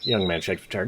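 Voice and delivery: put-on high, upset young man voice; frantic young apprentice. Apprentice Word telling the hero in a high upset voice. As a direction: tell the terrible news in a rush of fear.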